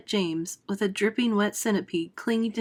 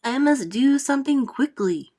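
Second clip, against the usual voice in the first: higher, louder fretful voice; frowning Aunt Spiker; 5 semitones higher, 4 dB louder than usual. Acted. Aunt Spiker in the centipede's verse, frowning. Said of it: "she frowned".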